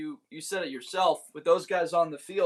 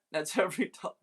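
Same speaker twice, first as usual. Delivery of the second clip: laughing; much faster than usual. Real, not acted. Laughing at a viewer's bet.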